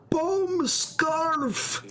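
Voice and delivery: high, far squeal of alarm; mock panicked cry. Streamer shrieks about the scarf, mock panic. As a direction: yelp it like a cartoon panic.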